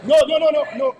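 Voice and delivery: high, loud string of no's; outraged no. Real, not acted. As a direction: shout the no's down, appalled. Rejecting waste in parliament.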